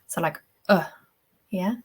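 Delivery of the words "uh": "uh" from down in the throat; short, deep isolated "uh"; deep throat vowel. Shown as a demonstration. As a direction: place "uh" low and back, as in put. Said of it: "from down in your throat".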